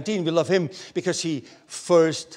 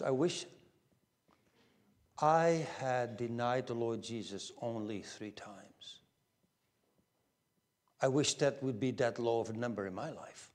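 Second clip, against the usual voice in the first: regretful confession; 6 semitones lower, 10 dB quieter than usual. Retold or imitated. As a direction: confess it quietly, drawing the words out. Voicing his own regretful thought.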